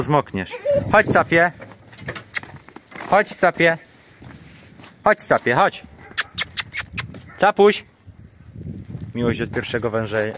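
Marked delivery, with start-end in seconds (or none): 0.9-7.8 calling the goat. Real, not acted. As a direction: call him over, raised and coaxing.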